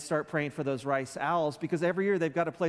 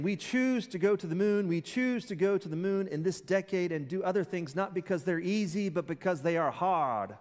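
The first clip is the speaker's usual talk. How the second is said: a light Boston Massachusetts imitation of a famous moon speech; Massachusetts accent; 3 semitones higher than usual. Pastor quoting Kennedy's moon speech to the congregation, in a Massachusetts accent. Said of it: "how he said it with the Massachusetts accent".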